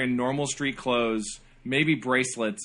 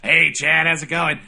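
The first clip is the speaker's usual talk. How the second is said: mock apologetic librarian; 4 dB louder than usual. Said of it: "He's like".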